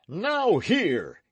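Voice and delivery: loud, raging oath; grief-stricken knight shouting in rage; furious cry. Acted. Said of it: "he cried".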